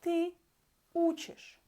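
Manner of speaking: ты учишь, unstressed ending said as a quick ish; Russian demo. Shown as a demonstration. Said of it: "you study".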